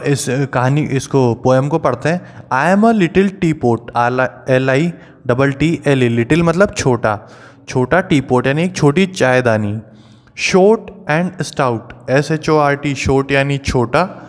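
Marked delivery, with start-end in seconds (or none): 2.5-3.8 slow, sing-song rhyme reading; recited rhyme line. Shown as a demonstration. Teacher reading the teapot poem to students, slow sing-song. 10.5-12.1 slow, sing-song rhyme reading; recited rhyme line. Shown as a demonstration. Teacher reading the teapot poem to students, slow sing-song.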